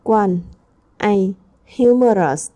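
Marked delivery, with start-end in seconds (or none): 1.8-2.5 Humorous with the first syllable HU stressed. Shown as a demonstration. Teacher modelling stress for the class, first syllable stressed. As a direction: hit the first part of Humorous. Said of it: "Ta nhấn phần một".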